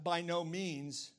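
slow, even BY NO MEANS; deliberate, firm "by no means"; emphatic no. Shown as a demonstration. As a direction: draw out each word of "by no means". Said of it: "it's a double emphatic no".

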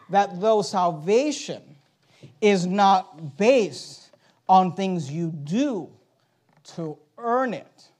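slow, deliberate build with "earn" set apart; pause, then weight the word "earn"; stress on earn. Shown as a demonstration. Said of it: "place the emphasis where God places".

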